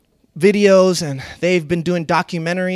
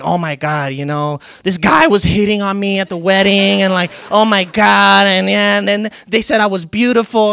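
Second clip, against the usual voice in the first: imitating excited wife; 8 dB louder than usual. Voicing wife's excited report.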